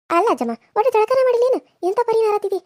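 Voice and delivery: high-pitched, indignant complaint; disgusted scolding. Acted. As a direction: pitch it up and tell them off. Scolds grandmother for smelling bad.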